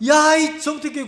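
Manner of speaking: high, loud yell; shouting at himself. Retold or imitated. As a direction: yell your own name in rebuke. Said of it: "소리를 지르니까". (자기 이름을 크게 외치는 고함)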